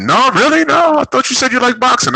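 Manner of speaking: high, loud mocking British voice; a shrill fake British accent jeering in disbelief; mock British guy. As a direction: squeak it out like a stuck-up Brit. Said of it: "with British accents".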